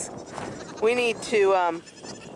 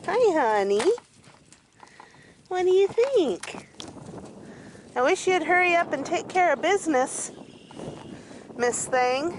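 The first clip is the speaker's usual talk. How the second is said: high, quick cooing to the goats; high sing-song chatter to the doe; 7 semitones higher than usual. Real, not acted. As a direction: playfully urge the goat to hurry.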